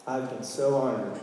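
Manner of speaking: choked up, holding back tears; teary. Real, not acted. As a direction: voice catching with tears. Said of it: "I got a little teary".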